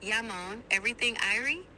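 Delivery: relaxed Jamaican greeting; Jamaican accent. Shown as a demonstration. AI assistant performs on user's request, Jamaican accent. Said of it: "do the Jamaican one".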